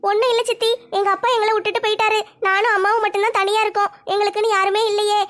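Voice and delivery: put-on a girl moved to happy tears, understated; tearful daughter. Daughter explains her tears of joy to her aunt, lightly girlish.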